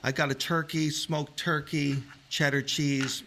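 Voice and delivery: talking while chewing; words around a bite of sandwich; mouth full. Real, not acted. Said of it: "talking with your mouth full".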